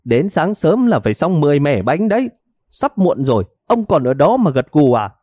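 high, needling scold; wife snapping at her drowsy husband; impatient wife. Acted. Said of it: "Bà vợ sốt ruột, nhức móc ông chồng".

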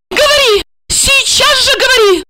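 high-pitched sharp command; lashing cry. A narrator's reading. Wife demanding answer from husband, lashing cry. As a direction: order him to talk, high and cutting. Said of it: "хлёстко выкрикнула Ольга".

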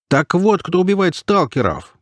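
high-pitched amazed exclamation; astonished. A narrator's reading. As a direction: exclaim in sudden realisation. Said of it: "поразился лоцман".

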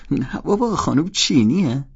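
loud, high-pitched astonishment; amazed disbelief. A narrator's reading. Holden hearing his friend dates a Chinese woman, amazed.

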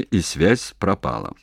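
ordinary delivery, nothing marked

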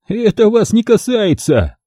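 slow, mild scared snap; испуганно; frightened hiss. Acted. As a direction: push her off in a panic. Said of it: "испуганно зашипел фотограф".

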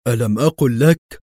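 smug told-you-so tone; gloating. A narrator's reading. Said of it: "ابتسم قدري في شماتة".

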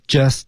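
"just" with the final T left unexploded; "just" ending without a T burst; unreleased T. Shown as a demonstration. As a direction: stop short of releasing the T in "just". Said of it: "T失去爆破".

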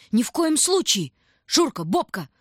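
high, loud cry near tears; tearful cry. A narrator's reading. Tanya refusing to leave the tram, voice trembling with tears. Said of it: "В голосе её задрожали слёзы".

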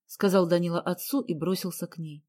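plain reading voice

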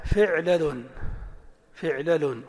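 فعلل with i first, then a on the lam; pattern demo. Shown as a demonstration. Teacher shows the vowels differ here, measured. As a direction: say فعلل as fi'-la-lun. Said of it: "هنا اختلفت الحركات".

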